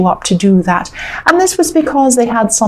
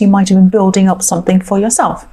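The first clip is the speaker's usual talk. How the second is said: hiccups. Real, not acted. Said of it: "Excuse me, I've got the hiccups".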